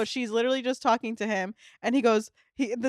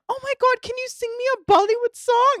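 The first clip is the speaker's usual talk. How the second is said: very high, loud mock gushing; excited begging; 12 semitones higher, 6 dB louder than usual. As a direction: squeal the request like a thrilled fan. Girl excitedly begging scammer to sing.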